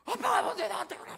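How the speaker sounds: put-on high, loud defiant teen talking back; the rebellious son snapping at his father; mimicking teenage son. Son mocked as shouting back at dad. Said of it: "눈이 뒤집어졌어요, 얘가".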